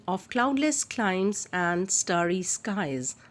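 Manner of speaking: drawn-out reading of the alliteration; teacher slowly reading out the alliterative line; slow recital. Shown as a demonstration. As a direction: linger on each sound, slowly. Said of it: "as in".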